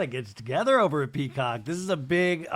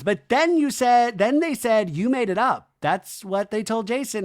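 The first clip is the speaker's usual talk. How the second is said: mock heated; 7 semitones higher, 5 dB louder than usual. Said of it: "And then Sheena goes".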